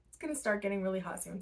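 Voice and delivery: hiccuping mid-sentence; interrupted by hiccups. Real, not acted. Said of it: "Sorry, I keep, like, hiccuping".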